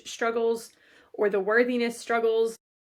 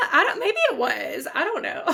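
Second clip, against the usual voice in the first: laughing; 6 semitones higher, 4 dB louder than usual. Real, not acted. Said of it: "Was that a poem?".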